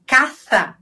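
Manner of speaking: "caça" with th for ç; tongue between the teeth on "caça"; Castilian ceceo. Shown as a demonstration. Teacher demonstrating Spain's sound, tongue between the teeth. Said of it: "A língua é entre os dentes".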